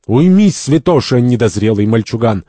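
loud, high opening, then easing; angry rebuke. Acted. Santori turns on the first man, angry. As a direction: silence him with an angry put-down.

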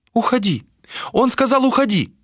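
put-on high old seer's voice; old woman voice. A narrator's reading. Old seer voiced by narrator.

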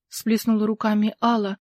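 ordinary delivery

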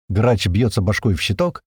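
usual speaking voice

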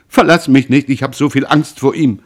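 loud, high-pitched desperate plea; frightened pleading. Acted. Mother begs son not to leave, terrified. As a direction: cry out in panic, begging.

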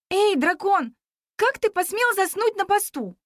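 high, bossy scolding; girl boldly reprimanding the dragon. A narrator's reading. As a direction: scold the guard like a supervisor.

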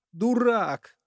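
high sharp shout of an angry mother. A narrator's reading. Mother yells at husband and son, shouting. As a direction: yell it at both of them. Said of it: "закричала Полина Ивановна".

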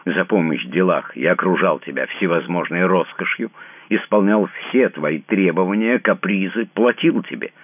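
he spells out his cold refusal to share her fate; cold enunciated fury. A narrator's reading. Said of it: "отчеканивая каждое слово".

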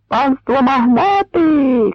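high, slow, loud mock hail; shouted mock call. Cossacks mocking the magnates, in a high slow shout. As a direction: hail them with scorn. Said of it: "кричали тим часом товариші".

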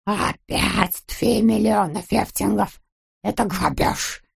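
slow outraged protest with F for R; indignant outcry. A narrator's reading. Miser rejects the ransom, indignant slow outcry. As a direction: protest the robbery, dragging the words. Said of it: "закричал Скуперфильд".

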